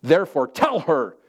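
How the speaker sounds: a hint of an aggrieved Martha; Martha's complaint. Pastor reading Martha complaining to Jesus, lightly acted. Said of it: "I like putting my own little emphasis in there".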